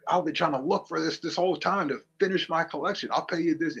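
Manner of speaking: a hint of a nerdy fan begging; mock collector. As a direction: mimic an overeager toy collector. Mocking an eager collector.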